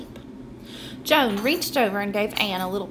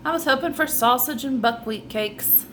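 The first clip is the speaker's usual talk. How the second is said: mild; 4 semitones higher than usual. Acted. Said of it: "He said mildly".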